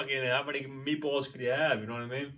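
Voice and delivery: slight Italian-American accent slipping out. Real, not acted. Host ribs co-host over meatballs, slight Italian-American accent. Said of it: "my Italian accent coming out there a little bit".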